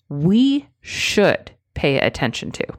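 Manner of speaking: firm, even statement leading with "We". Shown as a demonstration. Coach modelling the strong phrasing. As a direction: state it plainly and firmly. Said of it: "Say it more strongly".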